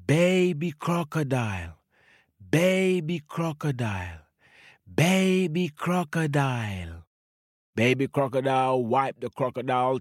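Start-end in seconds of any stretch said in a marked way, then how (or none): 0.1-7.1 calling out. Acted. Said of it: "they called for Baby Crocodile".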